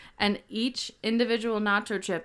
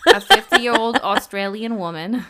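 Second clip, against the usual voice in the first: louder, laughing mock Australian accent on fifty-year-old Australian woman; 9 dB louder than usual. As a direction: ham up an Australian accent while cracking up. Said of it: "No, I'm just kidding".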